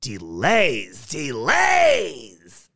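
rising exasperation; complaining old lady. A narrator's reading. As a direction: wail the complaint in an old lady's voice. Old lady complains about delays.

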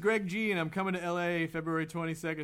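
put-on New Jersey voice for reading an email; New Jersey accent. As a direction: read it as a New Jersey guy. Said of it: "I had to do the accent".

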